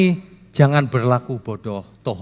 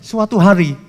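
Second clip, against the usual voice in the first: louder, higher mock repeat of the lecturer's phrase; mocking lecturer echo; 5 semitones higher, 4 dB louder than usual. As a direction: toss the lecturer's words back with a scoff. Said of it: "Gayanya dosen".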